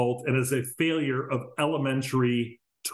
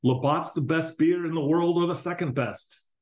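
put-on higher comic Canadian accent; mock Canadian accent; 5 semitones higher than usual. Podcaster spoofing a Letterkenny episode, mock Canadian accent. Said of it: "I don't know what kind of accent that was".

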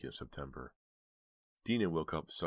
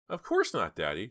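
protesting; 4 semitones higher, 6 dB louder than usual. A narrator's reading. Daughter protesting her innocence.

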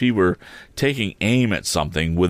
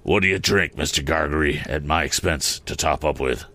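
low, sly, probing stranger; a low, cunning stranger; 4 semitones lower than usual. Acted. Stranger voiced by the narrator.

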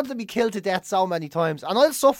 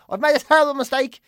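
"terrible" pushed higher and louder in mock panic; 5 semitones higher, 3 dB louder than usual. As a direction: blurt it out, suddenly alarmed. Retelling regret at a bad outing.

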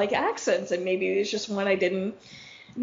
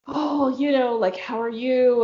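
imitated French accent. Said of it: "do it in your French accent".

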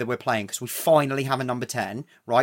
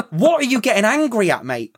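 laughing and higher in mock outrage; laughing disbelief; 4 semitones higher than usual. Real, not acted. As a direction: laugh at his nerve. Mocking Ceballos's anger.

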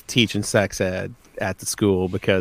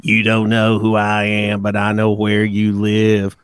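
creepy phone voice; 3 dB louder than usual. Retold or imitated. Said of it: "and he says".

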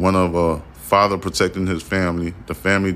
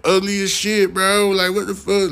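very high squeaky kid voice mocking him; taunting kids; 12 semitones higher than usual. Kids roasting the man outside, very high squeaky mock voice. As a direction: squeal insults like a bratty child. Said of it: "the kids started chomping on him like".

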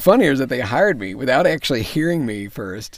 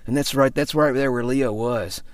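slow, lightly done politician impression; slow right down into a rough imitation; George W. Bush. Shown as a demonstration. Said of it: "really bad George W. Bush".

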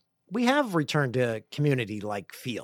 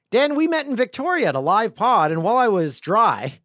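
lively, higher-pitched reading aloud; email read-out; 7 semitones higher, 5 dB louder than usual. Real, not acted. Host reading a listener's email on air, lively read-out.

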